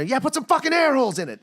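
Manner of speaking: high, indignant puppet squawk; outraged puppet. Acted. Puppet freed from an airless cooler, high outrage. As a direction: complain high and hot.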